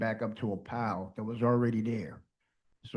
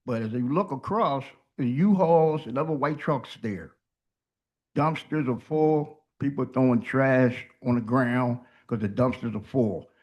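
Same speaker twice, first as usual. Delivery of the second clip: toothless. Real, not acted. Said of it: "I just had all my teeth out".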